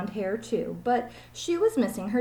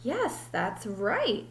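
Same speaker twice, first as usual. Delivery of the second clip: silly teacher; much slower than usual. Acted. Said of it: "said Missus Jewell's".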